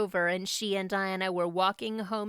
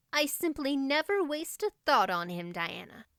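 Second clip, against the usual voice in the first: put-on higher, eager dreamy girl gushing on; a thrilled romantic girl reliving her big night; eager girl Anne; 6 semitones higher than usual.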